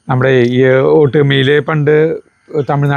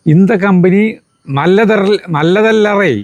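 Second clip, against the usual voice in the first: higher mock Tamil-accented Malayalam, slow in places; thin worker's broken Tamil pitched higher to win over drivers; 4 semitones higher, slower than usual. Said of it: "അപ്പൊ അവരോട് പറയും".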